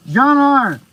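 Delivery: muffled through a respirator mask; n95 respirator. Real, not acted. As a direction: talk through a face mask. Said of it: "I'm talking through a respirator".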